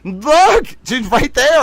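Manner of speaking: high, eager voice, pointing at the cat; excited high showing-off. Pretend. Streamer showing viewers the cat, high and excited. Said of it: "an opportunity to be like".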